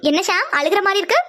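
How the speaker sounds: lilting, playful taunt; teasing. Acted. Girl teasing Shyam over his onion tears, teasing. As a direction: needle him with mock concern. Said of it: "சும்மாவே கலாய்ப்பா".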